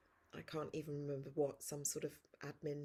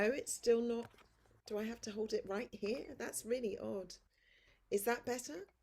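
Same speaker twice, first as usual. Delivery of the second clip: higher and louder to carry; projecting voice; 5 semitones higher, 4 dB louder than usual. Real, not acted. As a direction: push the voice out to be heard. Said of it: "you just need to project a bit more".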